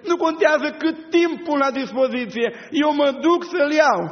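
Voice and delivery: urgent insistence growing stronger; rising urgent plea. Acted. Maria insists she will go.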